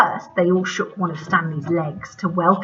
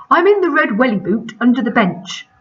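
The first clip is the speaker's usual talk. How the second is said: put-on mumbling old spider; 5 semitones higher, 7 dB louder than usual. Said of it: "mumbled Stanley".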